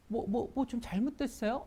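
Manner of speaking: hesitant, caring question; gentle concern. Shown as a demonstration. Teacher shows kindly asking a coworker, gentle. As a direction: ask softly, worried for them. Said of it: "이렇게 하는 거랑".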